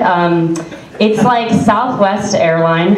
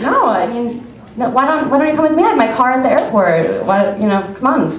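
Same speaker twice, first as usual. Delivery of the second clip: eager stranger; 6 semitones higher than usual. Retold or imitated. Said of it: "And he's like".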